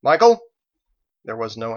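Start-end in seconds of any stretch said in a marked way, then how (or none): 0.0-0.4 loud, high call across distance; sharp rising holler; shout. A narrator's reading. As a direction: shout the name out, pitched way up. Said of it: "she shouted".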